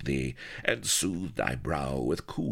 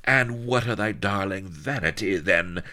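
much higher, louder jealous tirade; raging; 8 semitones higher, 4 dB louder than usual. Acted. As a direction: rage at the rival in jealousy. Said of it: "raged to and forth".

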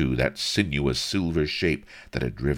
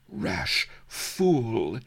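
higher, sharp put-on hiss; 8 semitones higher than usual. Sheba warns Avery while dancing, higher hiss. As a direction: spit the insult over her shoulder. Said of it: "hissed Sheba".

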